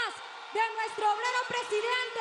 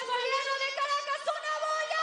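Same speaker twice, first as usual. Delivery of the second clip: high, fast call to the crowd; 5 semitones higher, faster than usual. Real, not acted. Calling crowd to cheer.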